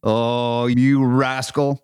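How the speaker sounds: hammed-up Irish leprechaun taunt; slow mock-Irish leprechaun tease. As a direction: drawl it slowly like a sly Irish leprechaun. Acting as evil leprechaun.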